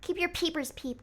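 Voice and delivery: usual speaking voice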